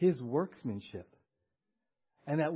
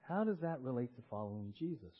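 quieter, lower repeat of the question; asking it again, softer and lower; 3 semitones lower, 5 dB quieter than usual. Shown as a demonstration. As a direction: drop the voice for the repeat. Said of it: "repeated softer".

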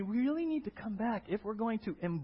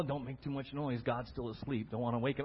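softer, tiptoeing hush; 8 semitones lower, 6 dB quieter than usual. Pretend. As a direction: keep it down so God sleeps. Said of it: "you know".

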